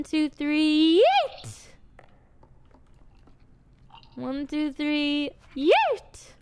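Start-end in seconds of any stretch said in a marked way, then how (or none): 1.0-1.7 high squealed yeet; gleeful yeet. Real, not acted. Tossing the gnome for fun, high gleeful squeal. 5.5-6.3 high squealed yeet; gleeful yeet. Real, not acted. Tossing the gnome for fun, high gleeful squeal.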